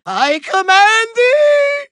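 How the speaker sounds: high, drawn-out desperate order; imperious command. Acted. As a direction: stretch it into an overlord's cry. Beaten villain gives orders.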